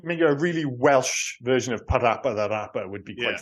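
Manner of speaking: a hint of grave Welsh accent; lightly solemn Welsh delivery; mild serious Welsh accent. Shown as a demonstration. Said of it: "in a really serious Welsh accent".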